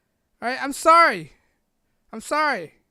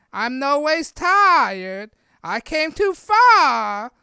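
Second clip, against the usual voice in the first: loud, drawn-out mock Black Southern accent; Hillary's Black Southern accent; 3 semitones higher, 8 dB louder, much slower than usual. Mocking a politician pandering to Black voters, exaggerated Black Southern accent. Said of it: "when she was talking black".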